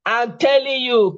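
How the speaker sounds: laughing through the words. Real, not acted.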